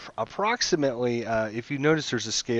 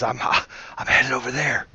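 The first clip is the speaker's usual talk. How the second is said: flustered merchant; 2 semitones higher, faster than usual. Acted. Merchant heading for the trees from the dragon, flustered. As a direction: play a rattled "oh my gosh".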